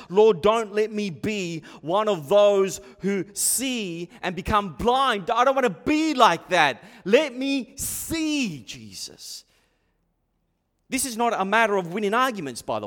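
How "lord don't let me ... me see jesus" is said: slow, insistent plea to God; heartfelt demonstration prayer, dropping at the end; pleading prayer. Shown as a demonstration. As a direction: pray it earnestly, stretching the key words. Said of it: "Pray like this".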